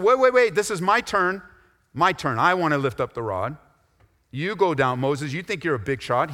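high, loud mock demand; playing a Joshua who grabs his turn; hammed-up my-turn protest; pushy Joshua.

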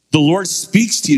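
put-on English accent, voice lifted. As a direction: imitate an English professor, pointedly. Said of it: "in his English accent".

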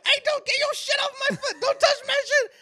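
high, loud jeering yell; mocking shout. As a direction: jeer loudly at him. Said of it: "they start going".

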